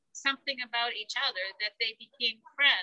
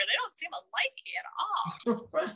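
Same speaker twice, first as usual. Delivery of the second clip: whisper; 5 semitones higher, 4 dB quieter than usual. Retold or imitated. Imitating puzzled onlookers.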